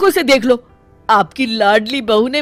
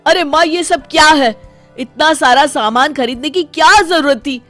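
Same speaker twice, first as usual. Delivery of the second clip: raised, higher-pitched complaint; exasperated protest; 4 semitones higher than usual. Acted. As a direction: challenge mother about the waste. Son challenges mother over the shopping.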